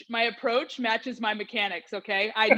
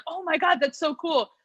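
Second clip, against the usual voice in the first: high-pitched imitation of an excited mom; impressed mom; 7 semitones higher than usual. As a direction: gush like a mom hearing big news. Imitates mom reacting to news.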